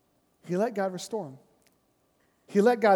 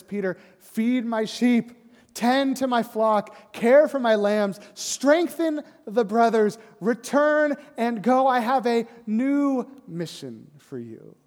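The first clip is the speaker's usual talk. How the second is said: solemn tender charge; 4 semitones higher, 4 dB louder, slower than usual. Acted. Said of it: "he restores Peter and says".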